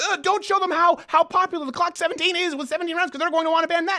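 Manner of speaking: high-pitched panicky imitation; mock panic. Host imitating gun owners hiding their Glocks, mock panic. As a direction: fret it out in a high, hammed-up voice. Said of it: "people right now I know are just panicking, going".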